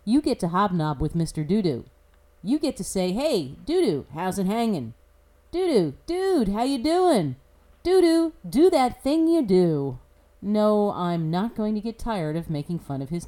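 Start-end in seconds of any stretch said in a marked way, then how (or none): 3.1-10.0 hammed-up high-pitched hailing; playfully exaggerated greeting, swooping up high on the name; mock buddy greeting. Commentator pretending to greet Mister Dudu, hammed-up and chummy.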